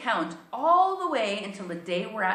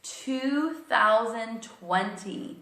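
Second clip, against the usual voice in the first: slow teacher prompt; 4 semitones higher, 4 dB louder, much slower than usual. Shown as a demonstration. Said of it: "what year are we in".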